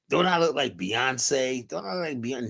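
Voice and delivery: lightly voiced vain woman asking. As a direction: stretch it, fishing for a compliment. Mocking women of the era.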